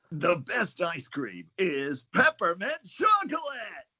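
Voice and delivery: very enthusiastic, bright, eager voice with rising delivery. Asked to repeat a sample sentence, saying it in a very enthusiastic, bright voice. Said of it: "your go-to is a very enthusiastic".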